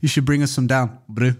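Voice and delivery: mock South African twang on brew; South African accent through a grin. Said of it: "the only word that was South African".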